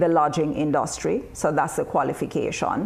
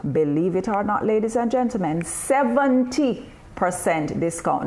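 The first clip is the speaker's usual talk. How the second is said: hyped-up sales pitch; infomercial voice. Pretend. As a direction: sell it like a TV ad. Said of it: "Now, this sounds like an infomercial".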